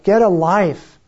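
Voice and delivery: "Get a life!" yelled up high and loud, falling at the end; imitating a mocking shout from a window; retold heckler shout. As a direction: throw it down like a jeering heckler. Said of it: "And one of them shouted".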